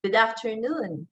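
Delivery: "Good afternoon" with NOON lifted then sliding down; slide intonation. Shown as a demonstration. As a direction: let "afternoon" glide up and fall. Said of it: "The same thing also".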